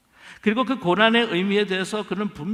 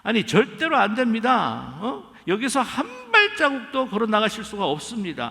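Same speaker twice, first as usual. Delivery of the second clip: blunt refusal; 4 semitones higher than usual. Retold or imitated. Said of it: "넘어선 겁니다".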